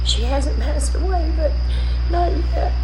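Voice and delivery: high, loud tearful voice that keeps breaking; really crying while asking for prayers; upset and crying. Real, not acted. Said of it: "I'm sorry I'm upset on this video".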